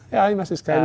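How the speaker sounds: charmer. Retold or imitated. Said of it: "He's Andy's a charmer".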